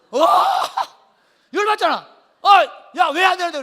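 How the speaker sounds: loud, high outraged shout; hungry brother exploding at a refusal; acted exasperation. Acts Esau angry at refusal.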